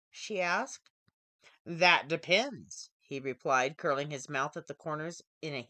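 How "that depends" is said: lower, slow and knowing; smooth male stranger. Acted. Tall stranger teasing the startled programmer, low and sly. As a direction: let a sly smile sit in it. Mysterious stranger answers Betty Lou.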